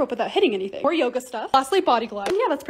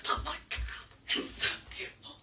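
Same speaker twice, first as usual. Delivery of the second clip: awed whisper; 15 dB quieter, slower than usual. Real, not acted.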